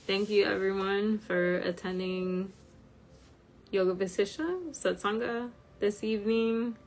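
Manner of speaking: tired croaky voice. Real, not acted. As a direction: speak with a worn, croaky voice. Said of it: "it makes my voice croaky".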